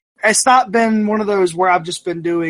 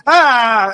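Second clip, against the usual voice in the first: scream; 4 semitones higher, 5 dB louder than usual. Retold or imitated. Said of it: "And I'm just, like, screaming".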